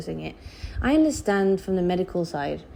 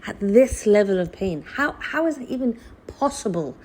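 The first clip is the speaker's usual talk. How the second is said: disbelief; 5 semitones higher than usual. Retold or imitated. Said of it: "I was like".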